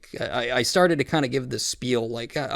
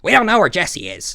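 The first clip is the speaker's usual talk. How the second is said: exaggerated high-pitched impression; Boogie; 5 semitones higher, 4 dB louder than usual. Storyteller demonstrating how Boogie sounds, exaggerated high impression. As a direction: repeat it as a caricature of his voice. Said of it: "That's how he fucking sounds".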